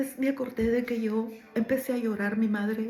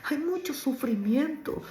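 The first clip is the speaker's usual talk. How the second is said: choked-up plea; 3 semitones higher, slower than usual. Retold or imitated.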